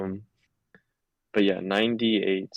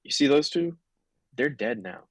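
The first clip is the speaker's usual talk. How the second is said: deceptive bluff; 5 semitones higher than usual. Acted. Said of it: "Deception, deception".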